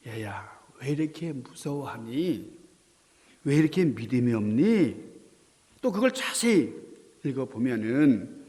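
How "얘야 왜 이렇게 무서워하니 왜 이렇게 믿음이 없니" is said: 느리고 부드럽게 타이르기; 아이를 다독이는 다정한 음성; 어린애 달래듯. Acted. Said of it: "어린애를 달래듯이". (살살 달래는 말투)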